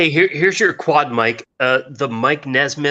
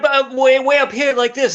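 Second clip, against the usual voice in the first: way up high; 14 semitones higher than usual. Shown as a demonstration. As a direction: climb up into a high voice to show it. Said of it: "he'd start way up".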